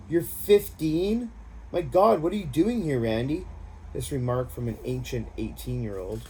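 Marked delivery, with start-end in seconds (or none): 0.1-3.5 shocked. Acted. Shocked at his age.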